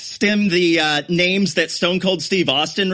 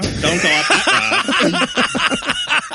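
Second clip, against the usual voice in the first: laughing mock doom; spooky warning; 7 semitones higher, much slower than usual. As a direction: ham up a horror-movie prophet, slowly.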